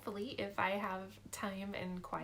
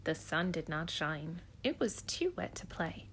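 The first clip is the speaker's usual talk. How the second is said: storybook narration. Acted. Reads Dr. Seuss aloud.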